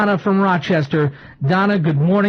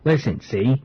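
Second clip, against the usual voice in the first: gangster cartoon Brooklyn voice; tough-guy Brooklyn talk; Brooklyn accent; 3 semitones higher than usual. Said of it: "who do I sound like? Listen, see?".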